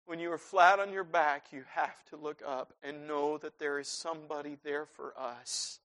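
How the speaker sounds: soft, quiet reassurance; gentle, hushed mother's words; mom's comfort. Retold or imitated. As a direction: comfort a grieving son. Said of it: "my mom said to me".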